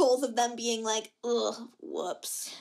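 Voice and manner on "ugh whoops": low, soft, unbothered goodbye; mock a couple who barely care; lackluster. Both of them at their goodbye, imitated lackluster. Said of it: "so lackluster".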